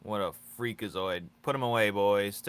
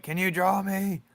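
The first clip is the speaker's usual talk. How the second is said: much higher, squeaky begging voice; mimicking a fan; 11 semitones higher, 7 dB louder than usual. Quoting viewers who ask for drawings, squeaky and high. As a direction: ham up a needy fan's request. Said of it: "People be like".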